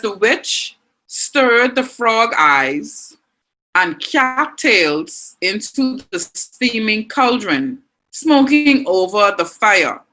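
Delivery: reading the example sentence out slowly, word by word; slow careful read-aloud. Shown as a demonstration. Teacher reads the witch sentence to the class, slowly. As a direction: lay each word out so the class can follow. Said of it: "All right, it says".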